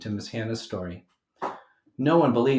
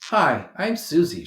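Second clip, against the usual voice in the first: put-on friendly girl; 6 semitones higher, 7 dB louder than usual. A narrator's reading. Susie greets crying Theo.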